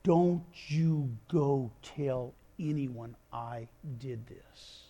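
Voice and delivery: slow, low, stern warning fading almost to nothing; strict warning, low and slow. Retold or imitated. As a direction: warn her gravely and slowly. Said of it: "with strict, stern warning".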